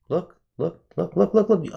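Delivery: rapid high-pitched "look, look"; can't believe the candle; excited high "look". Real, not acted. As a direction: point frantically at the chart. Pointing at price move.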